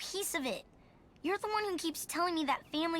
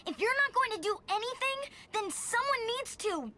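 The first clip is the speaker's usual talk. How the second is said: pitched up, hot and defiant; defiant outburst; 5 semitones higher than usual. Acted. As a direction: push back hard at a stubborn mother. Daughter defies stubborn mother.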